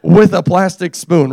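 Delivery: mock cheering. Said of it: "And I'm like".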